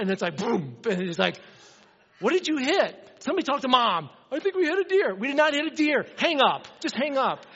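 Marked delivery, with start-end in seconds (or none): 2.2-7.5 high, loud frantic voices overlapping; family in the van after hitting something; family panic. Retold or imitated. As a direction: shout it like everyone's scared at once.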